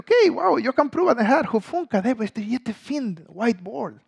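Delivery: put-on high, thrilled little-kid voice; retelling his own childish delight; excited child. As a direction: gasp at a new toy. Excited six-year-old finds eraser.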